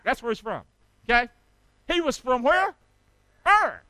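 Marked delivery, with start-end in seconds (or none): 3.5-3.8 loud, high punched syllable; call-and-response shout. Real, not acted. Preacher having the congregation repeat Ur, loud high call. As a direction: fire it out for the crowd. Answers his own prompt.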